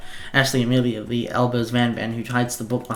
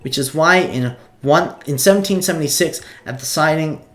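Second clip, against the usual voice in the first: excited professor voice; 3 semitones higher, 4 dB louder than usual. Acted. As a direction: announce the lesson with gusto. Sprinkles lectures the class.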